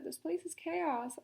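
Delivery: crying out. Acted. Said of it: "I cried".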